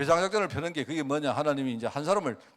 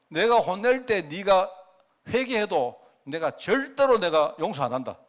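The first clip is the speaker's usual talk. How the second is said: stern God's warning; 2 semitones higher, 3 dB louder, slower than usual. Acted. God warning the Israelites he will not forgive, stern and loud. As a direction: lay down the judgment slowly, like a stern God.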